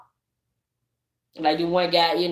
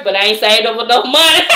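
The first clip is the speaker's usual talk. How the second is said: laughing retelling; 6 dB louder than usual. Retold or imitated. Retells comedian's church joke, cracks up.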